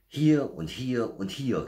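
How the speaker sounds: high, loud, drawn-out calls; storybook bear cub proudly calling; excited calling out. A narrator's reading. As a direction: call out each find eagerly. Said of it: "rief Berti".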